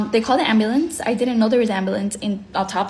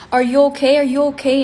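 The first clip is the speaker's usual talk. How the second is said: imitated worried bystanders; 4 semitones higher, 6 dB louder, faster than usual. Bystanders rushing over, worried.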